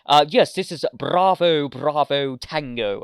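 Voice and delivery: slow, put-on radio voice opening high and loud; radio call imitation. Fan imitating the Doctor on the radio, mock radio call. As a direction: announce the call signs slowly and grandly. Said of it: "he's talking on the radio".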